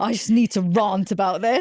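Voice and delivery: put-on, posh-sounding accent. Teasing a friend about their voice notes, speaker quotes the friend in a posh accent. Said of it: "crikey, you got a posh friend".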